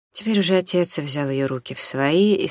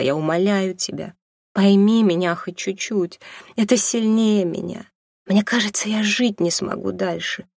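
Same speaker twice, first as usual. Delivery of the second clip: desperate pleading; 3 semitones higher than usual. Acted. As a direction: beg him to let her go, voice rising to breaking. Mother pleads desperately, rising.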